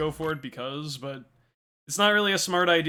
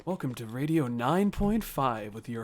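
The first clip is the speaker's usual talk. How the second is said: slow, lower radio host voice; radio announcer; 3 semitones lower, slower than usual. Shown as a demonstration. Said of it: "do my best, like, impersonation of that".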